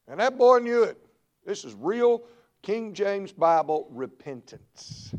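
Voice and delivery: sudden loud, high preaching burst; preaching shout. Acted. Preacher to the congregation, a sudden shouted burst. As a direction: explode on it like a revival preacher. Preacher erupts mid-sermon.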